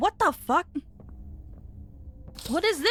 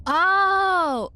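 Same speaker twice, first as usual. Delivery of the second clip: real frightened Oh, higher and louder; frightened cry; 5 semitones higher, 6 dB louder than usual. Real, not acted. Player cries out at a sudden noise, frightened yelp.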